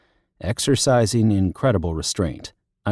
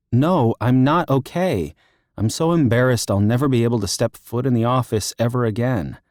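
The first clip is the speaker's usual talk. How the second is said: upset wail; 4 semitones higher than usual. Acted. Libby upset on the phone.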